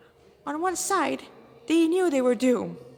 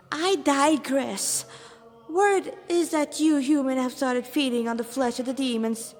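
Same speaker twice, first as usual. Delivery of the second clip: higher, louder, grandiose and theatrical; flamboyant demon lieutenant; 4 semitones higher, 4 dB louder than usual. Acted. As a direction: show off your rank to the cornered humans.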